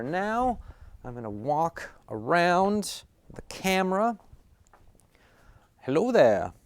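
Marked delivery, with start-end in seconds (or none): 5.8-6.5 impersonated greeting, louder with a falling swoop; Kenobi. Acted. Vlogger showing off his one impersonation, playful character greeting. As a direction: put on a film hero's hello, pitch arching up then dropping. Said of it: "only one Kenobi impersonation".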